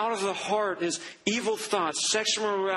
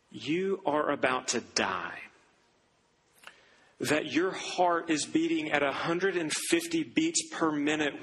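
grave doctor's warning; 4 semitones lower than usual. Retold or imitated. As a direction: deliver a dire diagnosis gravely. Cardiologist warns her of death.

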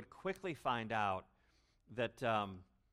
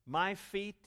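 higher and louder, incredulous You, me; astonished disbelief, pitched up; 6 semitones higher, 6 dB louder, much slower than usual. Shown as a demonstration. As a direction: sound stunned that he'd do this. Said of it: "It emphasizes Peter's astonishment".

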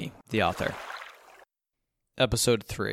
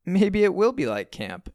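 high, slow, louder forced cheer; mom's strained optimism, pitched up; forced-smile mom; 9 semitones higher, 5 dB louder than usual. A narrator's reading. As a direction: look on the bright side through a smile. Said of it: "My mom forces a smile".

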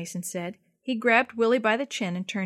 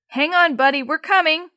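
louder, higher rescuer's shout; calling out; 7 semitones higher, 9 dB louder than usual. A narrator's reading. Rescuer shouting to the boy while approaching, loud. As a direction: reassure him from a distance.

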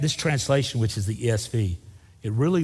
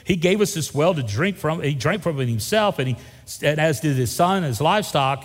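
raised, pressing Samaritan woman; woman at the well; 4 semitones higher, 4 dB louder than usual. Acted. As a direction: push back at Jesus, higher and louder. Preacher reads woman's lines raised.

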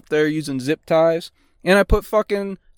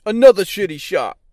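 mock DJ tag; 5 semitones higher, 5 dB louder than usual. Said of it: "I'm gonna start doing that".

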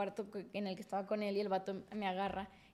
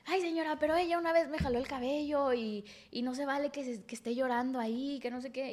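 whiny ex; 3 semitones higher than usual. Retold or imitated. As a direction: whine like a boy playing victim. Ex complaining to her mother.

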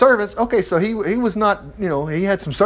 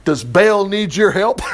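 laughing retort; slower than usual. Retold or imitated. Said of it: "Joash retorted".

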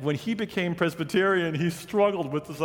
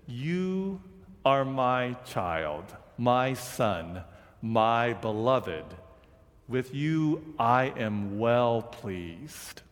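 slow, low and tender; hushed divine blessing, drawn out; gentle voice of God; 3 semitones lower, much slower than usual. Acted. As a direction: speak it like a blessing over a child. God's voice from heaven quoted.

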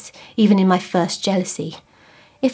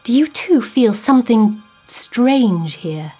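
anxious plea; 2 semitones higher, 4 dB louder than usual. Acted. Husband pleading about strangeness.

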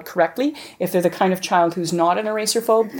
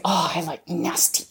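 put-on child's whisper; 5 dB quieter, slower than usual. Child answers teacher in role-play.

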